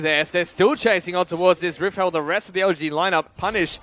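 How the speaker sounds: loud, lively live commentary; esports play-by-play. Real, not acted. Caster calling a chase across the map, lively play-by-play. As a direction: call the team fight with energy.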